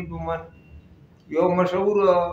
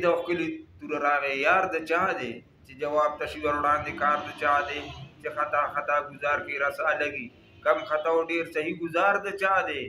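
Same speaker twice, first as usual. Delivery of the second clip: measured, cadenced verse reading; poem recitation; 3 dB quieter than usual. Acted. Reciting Hamid Baba's verse for listeners, poem recitation. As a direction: recite the couplets with rhythmic line endings.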